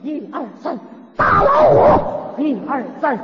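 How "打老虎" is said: high, slow, drawn-out rally shout; shouted slogan. Retold or imitated. Man trapped in tiger pit shouting a slogan, loud and drawn out. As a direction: yell the slogan to scare the tiger. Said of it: "来来来，大家伙儿跟我喊口号".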